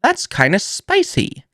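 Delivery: high, slow mock mobster "spicy meatball"; mock spicy surprise. Tasting the hot sauce, a high slow hammed-up reaction. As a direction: ham up the first taste, slowly and high. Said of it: "I was like".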